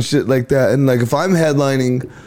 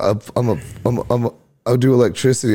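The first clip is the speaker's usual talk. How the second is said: imitating his stutter; faster than usual. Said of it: "he did this stutter thing".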